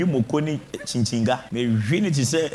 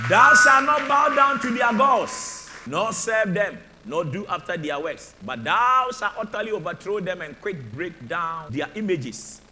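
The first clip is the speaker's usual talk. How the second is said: scripture reading; 3 semitones higher than usual. Real, not acted. Preacher reciting the Exodus passage to the church, solemn reading. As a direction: read it like holy law.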